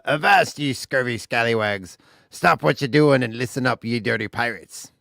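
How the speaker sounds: pirate captain call. Retold or imitated. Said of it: "Example is".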